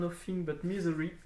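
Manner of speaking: English title with French accent. Real, not acted. Reading a comic title to viewers, French-accented English. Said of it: "mon magnifique accent anglais".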